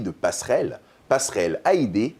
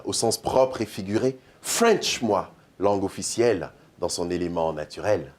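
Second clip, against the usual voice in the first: measured, rhythmic spoken-word recitation with dramatic pauses; slam poem. Acted. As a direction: deliver it like a slam poem on stage. Performs his slam text.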